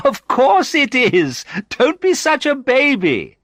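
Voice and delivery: high, loud, gleeful teasing; laughing mockery. A narrator's reading. Sandra mocks the nervous visitor, amused and loud. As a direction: scoff playfully at a nervous friend. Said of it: "Sandra laughed at me".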